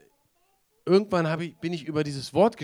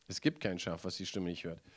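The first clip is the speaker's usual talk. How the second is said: quiet repetition; 7 semitones lower, 6 dB quieter than usual. Shown as a demonstration. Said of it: "ich habe einen Tipp".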